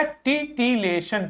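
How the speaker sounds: टिटिलेशन spelled out slowly; syllable by syllable. Shown as a demonstration. Teacher slowly sounding out टिटिलेशन for the class. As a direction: build टिटिलेशन slowly from its parts. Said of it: "तो क्या पढ़ गया?".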